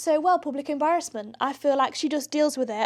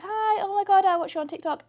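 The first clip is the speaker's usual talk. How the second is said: excited fan; 7 semitones higher than usual. Retold or imitated. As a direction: play a starstruck fan spotting a TikToker. Fan greeting him at bars.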